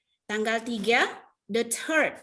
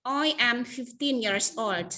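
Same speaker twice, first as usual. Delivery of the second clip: slow example sentence; slower than usual. Shown as a demonstration. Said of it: "Ini to be namanya ya".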